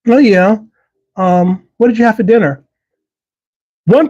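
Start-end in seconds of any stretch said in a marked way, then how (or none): 0.1-2.6 mock breezy small talk; sing-song pretend everything is fine; fake cheer. People hiding feelings, mock cheerful small talk. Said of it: "I'm fine" syndrome".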